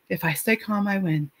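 softly repeating "If I stay calm, I win" to herself; quiet self-talk. Retold or imitated. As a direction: say it under your breath as a calming mantra. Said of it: "I stand at the bottom like".

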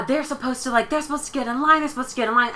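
hammed-up whiny protest about the line; a touch of Karen screaming at the drive-thru; mock outraged Karen. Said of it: "She's screaming. She's cussing".

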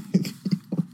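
low stifled chuckle. Real, not acted. Host reacting to her admission, stifled laugh. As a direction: chuckle under the breath.

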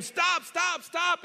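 high-pitched urgent calling out; retold yelling. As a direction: re-enact a dad yelling after his runaway child. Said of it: "I'm yelling at him".

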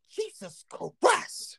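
high, drawn-out cry of shock; shocked exclamation. Retold or imitated. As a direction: stretch it out, stunned at what you see. Shocked at what he saw.

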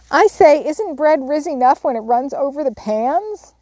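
high, loud tart demand. A narrator's reading. Flustered Jo bursting into the parlor, tart loud demand. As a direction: fling the question in, sharp and loud. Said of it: "demanding tartly".

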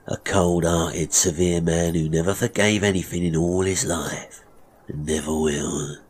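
a hint of sly, controlling villain; lightly voiced menacing barber. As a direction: explain with measured, veiled menace. Barber threatens apprentice.

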